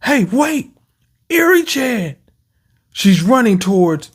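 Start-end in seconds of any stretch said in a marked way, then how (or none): 0.0-2.2 high alarmed voice. Retold or imitated.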